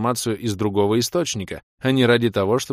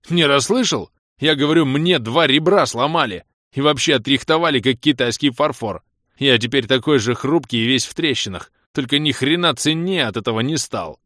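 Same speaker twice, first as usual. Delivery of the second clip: loud, high aggrieved tirade; indignant rant; 5 semitones higher, 5 dB louder than usual. Acted. Влас details his beating to friend, loudly aggrieved. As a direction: keep the outrage pouring out. Injured caller rants about beating.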